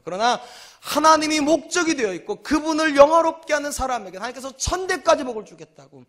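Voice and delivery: ordinary delivery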